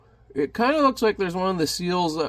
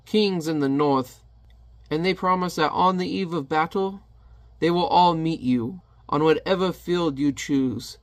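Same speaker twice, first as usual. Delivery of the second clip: royal envoy; 2 semitones higher than usual. Acted. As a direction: deliver it as a courtly message.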